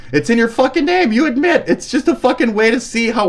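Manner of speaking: high-pitched, incredulous protest; real indignation; exasperated accusation. Real, not acted. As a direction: press the accusation, voice jumping up. Accusing an online opponent.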